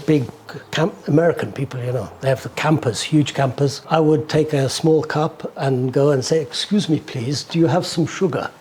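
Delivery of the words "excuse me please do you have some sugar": lightly put-on polite English accent; best English accent. Young traveller begging sugar from American campers, in his best English accent. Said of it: "in the best English accent".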